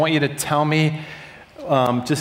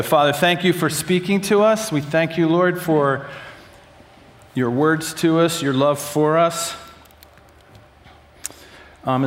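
prayer. Real, not acted. Leads group in prayer.

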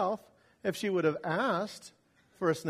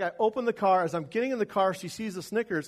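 ordinary talk

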